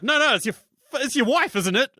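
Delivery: high pleading no no; hammed-up high protest; mock high plea. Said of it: "He's like".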